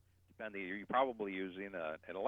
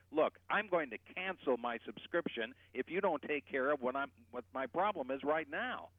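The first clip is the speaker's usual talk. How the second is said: firm, raised, complaining phone voice; angry complaint; 4 semitones higher than usual. Shown as a demonstration. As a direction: demand it angrily, speeding up. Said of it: "you get very angry and you say".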